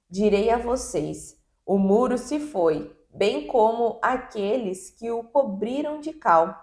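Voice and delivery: steady, solemn Bible reading voice; scripture reading. Acted. Podcast host reading Ezekiel to listeners, solemn scripture reading. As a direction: read the prophet's words with measured weight.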